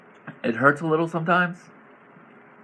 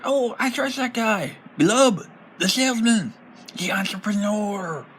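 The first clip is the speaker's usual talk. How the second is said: trusting townsfolk; 8 semitones higher than usual. Acted. Townsfolk fooled by disguise.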